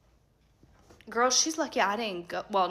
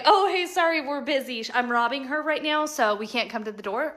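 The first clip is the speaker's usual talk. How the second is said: mock burglar; 4 semitones higher than usual. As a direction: play a mock-apologetic burglar making excuses. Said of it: "you think a burglar".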